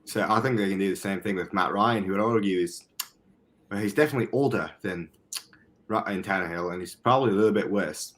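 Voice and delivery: measured amateur British accent; put-on British accent. Shown as a demonstration. Podcaster arguing the Jets can win, in put-on British. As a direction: make the case in mock British. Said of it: "when I do this accent".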